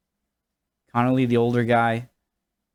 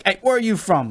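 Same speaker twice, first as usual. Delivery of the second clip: comedian calling out; 9 semitones higher than usual. Retold or imitated. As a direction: call out someone in the audience, teasing. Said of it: "so he's not like".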